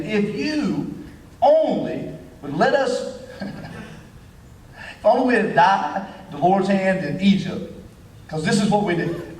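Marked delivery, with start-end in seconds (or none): 0.0-7.7 slowed, laughing through mock complaint; mock whining Israelites, laughing; laughing whine. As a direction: giggle through the grumbling.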